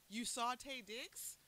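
slow, high, rising question; mock incredulous. Questioning sister about the star sighting, incredulous. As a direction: stretch it out in stunned disbelief. Retold disbelief at sister's casual mention.

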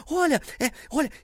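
high, eager pep talk from the officer; mock excited border officer cheering on a runner; animated officer. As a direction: hype him up like a fan at the race. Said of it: "ele ficou tão animado conversando comigo".

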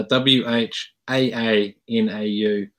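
spelled out slowly. Shown as a demonstration. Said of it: "it will spell".

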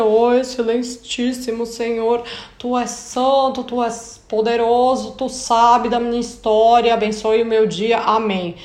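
ornate, reverent prayer voice, lightly put on; mock formal prayer. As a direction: parody a stiff, overly formal prayer. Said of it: "A gente fica". (oração formal e pomposa, em tom de imitação)

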